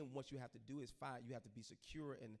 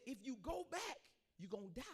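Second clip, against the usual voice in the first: higher, louder warning voice; mother warning her son he will die; ominous prophecy; 13 semitones higher, 4 dB louder than usual. Retold or imitated. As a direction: deliver doom as a prophet. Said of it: "She said".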